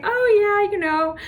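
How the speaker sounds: mock breathy runner on the phone, pitch drifting down; imitated breathiness. Runner explains herself to mother-in-law mid-run, imitated breathy voice. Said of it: "I was just, like, breathy".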